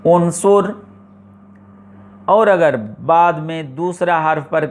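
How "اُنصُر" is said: teacher's careful model reading of عنصر with the vowel u on the first letter; Quranic recitation demo. Shown as a demonstration. Teacher shows students how to start the word: careful recited عنصر. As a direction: recite the word عنصر as اُنصر with a clear opening u sound. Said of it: "تو پڑھیں گے".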